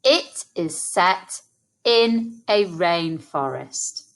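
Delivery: slow, split into two halves; slow chunked echo. Shown as a demonstration. Teacher repeating the sentence slowly in two chunks. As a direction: pause after set, then finish. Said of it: "Let's say that together".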